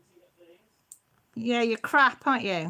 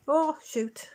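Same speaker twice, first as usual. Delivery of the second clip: whisper; 5 semitones higher than usual. Real, not acted. Camera trouble, afraid to touch it.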